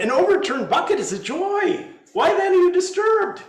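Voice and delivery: high, loud exclaiming Zen master; joyful master. Acted. Genji to the monks over the broken pot, loud and high. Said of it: "And Genji said".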